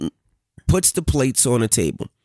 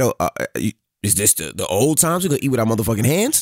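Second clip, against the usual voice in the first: mock sarcastic musing; 3 semitones lower, faster than usual. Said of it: "I said".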